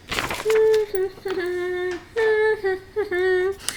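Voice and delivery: quiet breathy chuckle; soft laugh. Real, not acted. Teacher amused by a guess, soft laugh.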